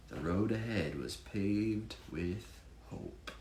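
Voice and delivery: lively rhyming read-aloud; bouncy storybook reading voice; story narration. Acted. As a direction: read it like a picture book for children. Reads rhyming Chiefs picture book.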